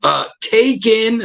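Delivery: high, slow deadpan. Retold or imitated. Freddie claiming the closet, high slow deadpan. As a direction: drawl it like the closet is reserved. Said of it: "He's like".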